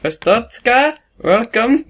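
high-pitched ceremonious greeting; mock official welcome. Inspector greets a returning citizen.

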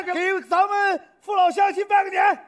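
rally everyone for a New Year greeting; hearty stage shout to the crowd; rousing announcement. Acted.

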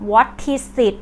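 "What is it" blended into what-tis-sit; linked words. Shown as a demonstration. Teacher repeating the linked form for viewers, blended. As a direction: carry the T and S over in "What is it". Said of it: "ควบคำเป็น".

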